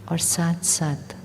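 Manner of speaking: steady, fuller meditation voice with long pauses; guided meditation. Real, not acted. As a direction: instruct them calmly, one measured phrase at a time. Continues leading the meditation.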